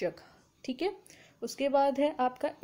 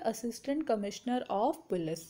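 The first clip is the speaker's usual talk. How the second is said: slow dictation; 3 semitones lower, 3 dB quieter, much slower than usual. Shown as a demonstration. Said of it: "ACP की full form क्या होती है?".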